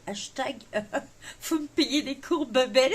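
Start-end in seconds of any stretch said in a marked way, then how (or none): 0.7-3.0 laughing through the joke, louder; joking with a laugh in the voice. Real, not acted. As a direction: giggle at your own English. Jokes about her English accent.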